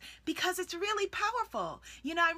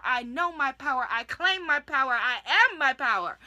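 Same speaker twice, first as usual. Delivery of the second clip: growing louder with each claim; building declaration; 4 dB louder than usual. Shown as a demonstration. Coach modelling affirmations that build to a strong, loud claim. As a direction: build power line by line. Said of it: "you're able to declare".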